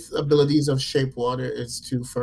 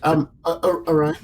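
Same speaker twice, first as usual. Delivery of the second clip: ordinary delivery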